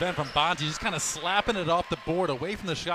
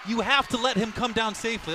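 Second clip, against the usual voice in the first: much louder and higher, indignant rant; fired-up protest; 7 semitones higher, 10 dB louder than usual. Real, not acted. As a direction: shout down the referee's call. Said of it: "I'm so fired up".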